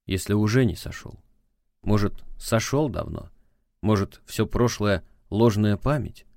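ordinary talk

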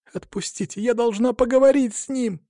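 high panicked scream to be let go; panicked frantic pleading. Acted. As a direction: beg frantically, voice climbing high. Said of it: "в панике закричала Алина".

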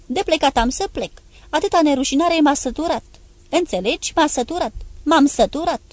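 high, loud disgusted shouting; enraged yell while leaving. Acted. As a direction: roar out his revulsion. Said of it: "A început să urle iar".

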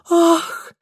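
high, breathy admiring ah; a girlish sigh of delight; delighted gasp. A narrator's reading. Lidia lifted onto the pier, delighted gasp. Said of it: "восхищённо вздохнула Лидия".

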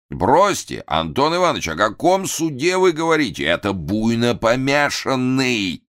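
пренебрежительно; dismissive. A narrator's reading. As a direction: brush off the accusation. Director dismissing.

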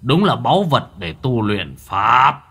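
lightly voiced sinister sorcerer; gloating old villain. Old sorcerer admiring the body he covets, gloating. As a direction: savour the prize, stretching the last words.

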